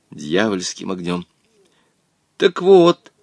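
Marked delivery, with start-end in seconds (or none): 2.4-3.1 nervous build-up. A narrator's reading. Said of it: "судорожно глотнул воздух".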